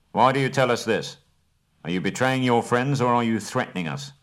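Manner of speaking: a grim, pressing challenge. Acted. Bard confronting Bilbo over betraying his friends, grim. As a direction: demand the truth, suspicious. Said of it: "asked Bard grimly".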